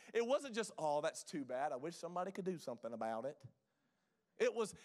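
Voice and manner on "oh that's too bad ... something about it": low, soft, dismissive mock pity; low-pitched token concern, put on to mock; mock sympathy. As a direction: feign idle sympathy, pitched down and trailing quickly. Mocking passive sympathy he rejects.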